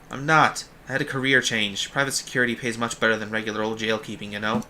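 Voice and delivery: lightly voiced Bostonian jailer; a loose hint of Boston; Quark, vaguely Bostonian accent. Jailer explaining his career change, vaguely Bostonian. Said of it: "using, like, a vaguely Bostonian accent for him".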